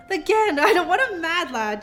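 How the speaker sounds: stunned it's happening again; incredulous again. Real, not acted. Streamer disbelieving a repeat donation, loud.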